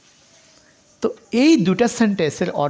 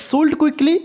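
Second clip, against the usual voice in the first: "sold quickly" said higher and louder as one rising unit; stress on sold quickly; 8 semitones higher, 3 dB louder, much slower than usual. Shown as a demonstration. Teacher showing students one tone unit, raised and rising. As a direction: bind "sold quickly" together and lift it. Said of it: "একসাথে যখন intonation করা হচ্ছে".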